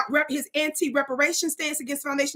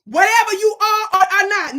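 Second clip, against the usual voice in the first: spirit voice; 4 semitones higher, 7 dB louder than usual. Real, not acted. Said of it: "When you hear me speak like that".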